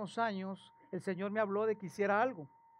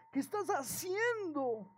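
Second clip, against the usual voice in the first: reprimenda de Samuel; 8 semitones higher, much slower than usual. Acted. Samuel reprende a Saúl.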